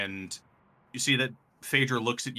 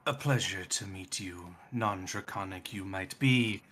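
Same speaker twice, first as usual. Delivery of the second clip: slow, lightly voiced draconic god; measured and formal, unhurried; Null; 4 dB quieter than usual. Death god greets a non-draconic ally, slow and formal.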